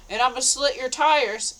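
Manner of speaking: retold yell. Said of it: "he starts yelling at her".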